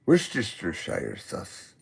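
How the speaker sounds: slow, drawn-out Worcestershire sauce. Shown as a demonstration. Tongue-twister said slowly for a friend, drawn out. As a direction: stretch out each syllable of "Worcestershire sauce". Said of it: "Say that three times slow".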